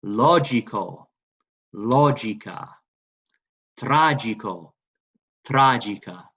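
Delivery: deliberate, drawn-out first syllable in "Logico" and "Tragico"; say-with-me model. Shown as a demonstration. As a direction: stress LO in "logica", TRA in "tragica", for echoing. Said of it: "Say it with me".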